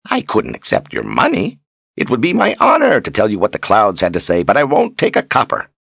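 lightly voiced gracious showman, lifting in pitch; Zed, magnanimous. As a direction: refuse payment with a flourish.

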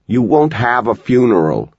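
put-on boy shouting at his mother; shouted. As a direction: cry it out to stop the thought. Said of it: "he shouted".

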